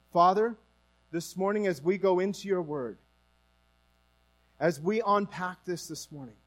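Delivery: measured, earnest congregational prayer. Real, not acted. Leads an opening prayer.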